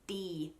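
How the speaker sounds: crisp D with tongue tip on the ridge; clean D. Shown as a demonstration. Accent coach shows learners tongue placement, clean D. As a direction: say D cleanly, tip just behind the teeth. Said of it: "a nice clean D".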